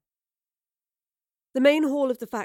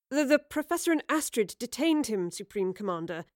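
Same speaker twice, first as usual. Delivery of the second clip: stammering; 2 semitones higher than usual. Acted. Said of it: "Yarrow stammered".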